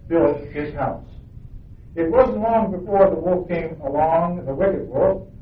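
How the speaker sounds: storybook reading to the congregation, voicing the pigs and wolf lightly; story narration. A narrator's reading. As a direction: read it like a bedtime tale for children. Reads children's story aloud.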